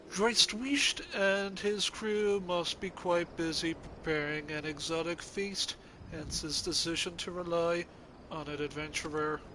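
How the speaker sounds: lightly voiced haughty critic; a hint of a pompous film snob; Cinema Snob voice. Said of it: "I should give this guy the best cinema snob impression that I can muster".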